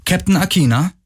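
put-on high, melodic girl's voice; lightly voiced sweet inquiry, lilting upward; soft melodious voice. A narrator's reading. Girl calls to the captain from the ship, softly melodious. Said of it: "sagte eine weiche, melodische Stimme".

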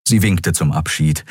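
normal talking voice

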